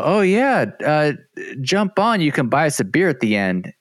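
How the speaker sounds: high mocking cyclist voice; high goofy impression of the group; mocking riders. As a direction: mimic them, smug and carefree. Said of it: "they're all".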